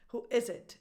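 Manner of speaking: "Who is it" with IS stressed, falling after. Shown as a demonstration. Teacher repeats the correct music, stress on IS. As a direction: lean on the verb "is". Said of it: "the stress goes on the verb".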